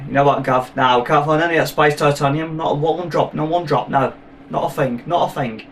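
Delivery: mock Cockney dub voice; bad Cockney accent. Dubbed film character talking to Gav, bad Cockney accent. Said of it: "someone who does a really bad Cockney accent".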